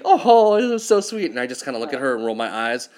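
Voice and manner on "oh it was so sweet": put-on high, gushing girlfriend voice; mock her swooning over the film; lovey girlfriend. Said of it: "she looks at me like this, all lovey".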